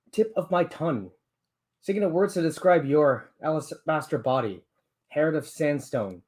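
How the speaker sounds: slow, deliberate poem reading; poetry reading. Acted. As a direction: read it like a spoken-word poem. Reads his debut poem aloud.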